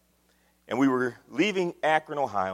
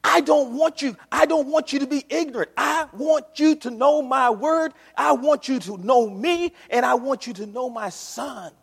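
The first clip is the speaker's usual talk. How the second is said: voice of God; 8 semitones higher, 4 dB louder than usual. Retold or imitated. God pleading with his people through the prophets, earnest. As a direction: speak as God longing to be known. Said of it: "God is saying over and over".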